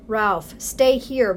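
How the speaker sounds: slow, begging mother; slow imploring mother; pleading. Acted. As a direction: plead with him to stay. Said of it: "pleaded his mother".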